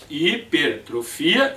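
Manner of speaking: HIPERTROFIA slowed and split after "hiper"; slow teacher's breakdown of "Hipertrofia"; split at the prefix. Shown as a demonstration. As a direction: say "Hipertrofia" in slow chunks, hi-per-trofia. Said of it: "os prefixos são de sílabas".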